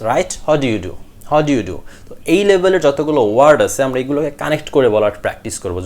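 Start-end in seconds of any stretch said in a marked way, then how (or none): 0.5-1.8 "How do you do" joined as "hadyu du"; native-style linking. Shown as a demonstration. Teacher models sounding like natives, linked. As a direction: close the gaps in "How do you do". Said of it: "something closer like the natives".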